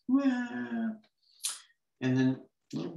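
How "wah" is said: mock wail. Shown as a demonstration. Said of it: "Notice I really do make sounds".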